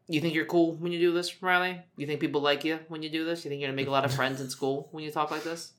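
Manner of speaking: quick, playful telling-off; mock scolding. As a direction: needle the baby with rhetorical questions. Mock lecture to crying baby.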